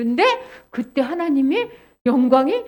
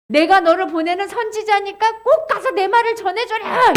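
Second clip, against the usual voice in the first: firm order, a little raised; commanding God; 4 semitones higher, 4 dB louder than usual. Acted. God sending the prophet to speak, insistent command. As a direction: press the order home with emphasis.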